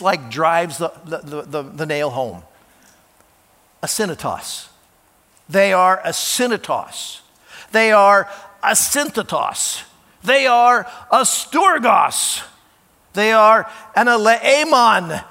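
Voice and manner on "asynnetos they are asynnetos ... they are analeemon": each Greek word louder and slower, ending in a shout; building to a shout. Shown as a demonstration. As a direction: climb from plain to a full shout, word by word. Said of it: "You can just hear him kinda raising his voice".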